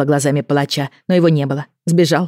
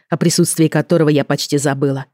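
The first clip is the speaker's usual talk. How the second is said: usual speaking voice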